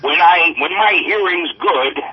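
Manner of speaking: slow, drawn-out celebrity bumper; leisurely impression with stretched-out phrases; Stan Lee. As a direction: do a slow comic showman recording a plug. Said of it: "This is Stan Lee".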